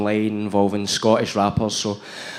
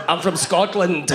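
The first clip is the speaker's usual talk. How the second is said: Drew Galloway; 4 semitones higher than usual. Retold or imitated. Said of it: "Do you want me to Drew Galloway it up?".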